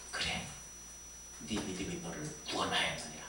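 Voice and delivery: low, soft pronouncement; hushed, solemn blessing; Jesus. Retold or imitated. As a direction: grant it in a deep, quiet voice. Jesus replying to the beggar.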